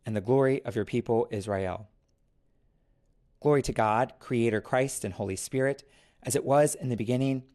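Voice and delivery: liturgical recitation. Acted. Canticle said aloud.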